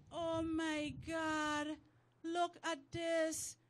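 very slow, drawn-out mock shock; shocked exclamation. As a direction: stretch every word in scandalized amazement. Reenacts shocked voice note.

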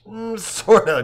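high, amused hedge; laughing, half-agreeing reply. A narrator's reading. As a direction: chuckle through a noncommittal answer. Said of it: "says with a laugh".

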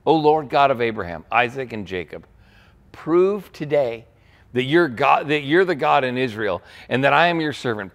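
earnest scripture prayer read aloud. A narrator's reading. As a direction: plead simply to God, falling away at the ends. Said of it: "walked up to the altar and prayed".

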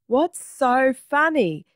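high, drawn-out question with weight on "funny"; exasperated question. A narrator's reading. Stephen asks Egbert, who is doubled over laughing, exasperated.

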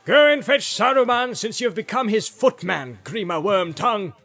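loud, high, scornful wizard's order; commanding shout. Acted. Gandalf orders the servant at window.

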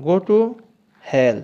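loud, angry Go to hell; angry shout. Shown as a demonstration. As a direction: throw it at him furiously. Angry phrase drill, shouted. (রাগে চিৎকার করে)

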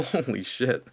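excited laugh. Real, not acted. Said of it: "getting all excited on you guys".

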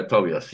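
Tobias repeated as "to-BEE-as"; corrected name pronunciation. Shown as a demonstration. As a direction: echo Tobias with "bee" in the middle. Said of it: "I would like to say the correct one".

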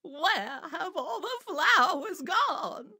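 very high, slow mock shout; Eugenia shouting. A narrator's reading. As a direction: wail it high and drawn out. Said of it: "shouted Eugenia".

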